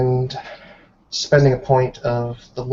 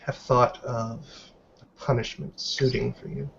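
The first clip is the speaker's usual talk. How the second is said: cold, deliberate scolding from an elder werewolf; stern Helga. Acted. Elder Helga scolding Bettina for breaking her oath, stern and measured.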